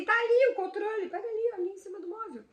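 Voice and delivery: breezy, high everyday remark; offhand demo of a mundane request; casual. Shown as a demonstration. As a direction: say it as if asking for the remote. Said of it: "Como se tivesse falando assim".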